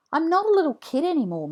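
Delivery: fast, high, loud protest; protesting boy. A narrator's reading. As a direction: rattle it off like an indignant kid. Jack protesting.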